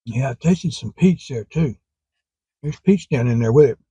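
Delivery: words slowed by a numb cold tongue; numb frozen tongue. Real, not acted. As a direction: talk through a frozen tongue. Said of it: "Sorry, my tongue's kinda frozen".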